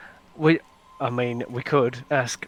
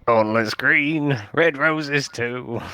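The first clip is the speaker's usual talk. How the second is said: put-on slow, deliberate Cockney accent; 3 dB louder, slower than usual. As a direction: drawl it out in Cockney. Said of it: "And a Cockney accent".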